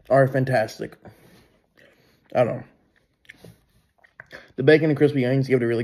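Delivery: muffled behind hand; talking through fingers; hand over mouth. Real, not acted. Seen 1: No burger or chewing seen; hand covers mouth while talking.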